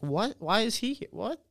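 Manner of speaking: high-pitched puzzled questioning, lightly acted; baffled disbelief. Onlookers questioning his award at the ceremony, baffled. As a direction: mimic onlookers who can't make sense of it. Acting out everyone's baffled looks.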